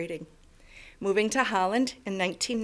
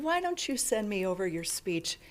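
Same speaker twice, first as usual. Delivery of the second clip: laughing whisper; 2 semitones lower, 8 dB quieter than usual. Retold or imitated. Retelling a friend's kind offer.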